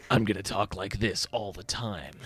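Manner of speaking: low gravelly monotone imitation. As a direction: growl it low with no expression. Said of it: "I have to say them in a gravelly voice".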